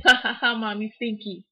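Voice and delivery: imitating son laughing. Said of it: "he just laughs".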